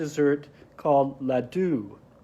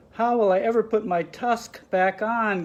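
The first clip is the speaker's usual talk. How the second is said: mild wail; 6 semitones higher than usual. Acted. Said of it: "Ganesha wailed".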